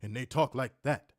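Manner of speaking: measured imitation Samoan accent; mock Samoan speech. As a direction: lightly mimic Samoan talk, word by word. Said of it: "They all sound like Rikishi".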